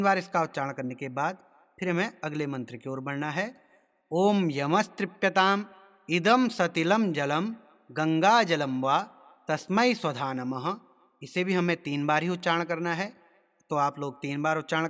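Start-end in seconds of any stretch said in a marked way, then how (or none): 4.1-10.8 measured Sanskrit chanting with drawn-out syllables; mantra recitation. Shown as a demonstration. Teacher demonstrating tarpan mantras to learners, measured recitation. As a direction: intone each phrase slowly, pausing between.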